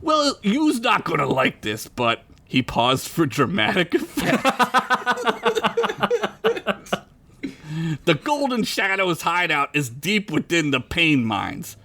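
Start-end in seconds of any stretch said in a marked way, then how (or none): 0.0-2.2 put-on Italian wiseguy accent. Joey pausing before the bad news, Italian accent. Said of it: "I gotta do an Italian accent now". 8.0-11.8 put-on Italian-accented dramatic reveal. Joey revealing the hideout for effect, Italian accent. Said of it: "I gotta do an Italian accent now".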